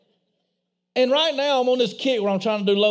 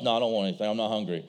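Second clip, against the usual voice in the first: put-on little boy's voice; 12 semitones lower, 6 dB quieter, much faster than usual. Boy voiced, small and low.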